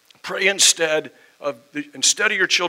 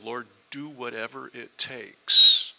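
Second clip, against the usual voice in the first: earnest prayer; 4 semitones lower than usual. Retold or imitated. Quoting a slow earnest prayer.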